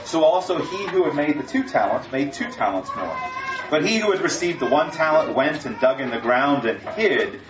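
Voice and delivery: measured, solemn Bible reading; sermon scripture read. Acted. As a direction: read the parable to the congregation. Reads scripture passage aloud.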